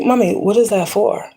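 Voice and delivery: put-on high, curious little-girl voice. Mother imitating daughter asking about the sage, high child voice.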